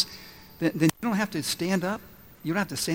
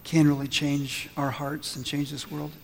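lower, hushed pastoral prayer; leading prayer; 3 semitones lower than usual. Real, not acted. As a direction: pray gently over the congregation, keeping the pitch low. Leads the congregation in prayer.

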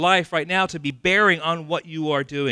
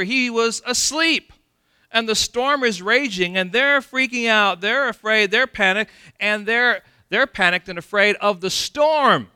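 1 dramatic build; 6 semitones higher, 6 dB louder than usual. A narrator's reading. Dramatic retelling of storm panic.

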